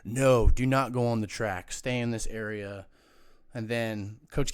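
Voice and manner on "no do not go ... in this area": slow, firm mock order, loud at the start; strict official. Former player imitating touchdown club staff, strict. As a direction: imitate a rule-enforcer laying down the law. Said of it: "hella strict".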